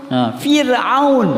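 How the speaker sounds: "Fir'aun" slow, with a thin, light r; "Fir'aun" drawn out, with a gentle thin r; soft reading. Shown as a demonstration. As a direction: read "Fir'aun" softly and slowly, with a light r. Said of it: "Tapi dalam bacaan lembut".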